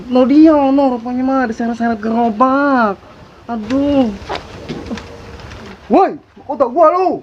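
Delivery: high shrill diva outrage; sassy drag queen. Acted. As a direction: drag queen shrieking over her crown. Finds crown dragged by cart. (banci genit yang histeris)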